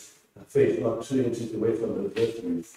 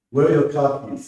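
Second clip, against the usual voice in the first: demanding; 3 semitones higher, 6 dB louder than usual. Acted.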